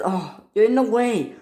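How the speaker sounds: said through a laugh. Acted. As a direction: chuckle it out while talking. Toy engines blocking each other.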